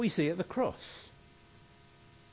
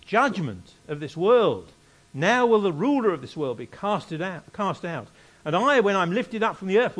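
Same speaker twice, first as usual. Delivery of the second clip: loud, raised declamatory verse reading; scripture reading; 3 semitones higher, 5 dB louder than usual. Acted. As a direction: proclaim the verses with weight on key words. Reads Bible passage aloud.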